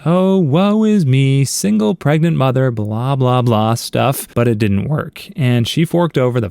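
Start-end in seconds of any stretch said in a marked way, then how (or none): 0.1-3.7 mock self-pity. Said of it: "She tried to play the".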